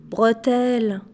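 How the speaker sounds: croaked out; faint croak after being struck mute. Acted. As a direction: force the word out in a croak. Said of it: "coassa-t-il enfin".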